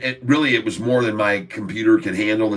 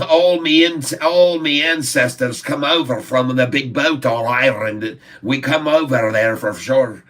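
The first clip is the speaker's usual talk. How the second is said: mock Irish accent; 3 semitones higher than usual. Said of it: "they like to talk like this".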